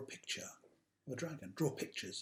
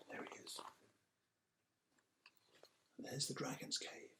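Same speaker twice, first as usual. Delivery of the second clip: whispered aside; 12 dB quieter than usual. Real, not acted. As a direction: point at the picture in a hush. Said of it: "pointing out pictures softly".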